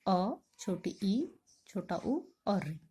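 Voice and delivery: अ, छोटी ई, छोटा उ sounded out slowly and softly; slow soft vowel recital; short vowels demo. Shown as a demonstration. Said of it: "ह्रास्व स्वर कौन से बताया मैंने".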